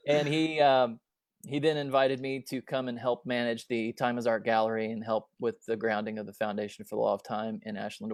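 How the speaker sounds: normal talking voice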